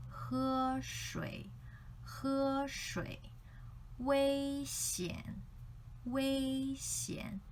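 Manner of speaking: 喝水 and 危险 held high on the first syllable; tone pairs. Shown as a demonstration. Teacher giving Chinese tone-pair examples to students. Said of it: "It's like in Chinese".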